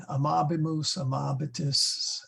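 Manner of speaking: amabimus, amabitis said a-MA-bimus, a-MA-bitis; amabimus, amabitis with the beat on MA; stress on second syllable. Shown as a demonstration. Teacher practising Latin forms, amabimus, amabitis stressed on MA. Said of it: "Latin is stressing the, the middle syllable".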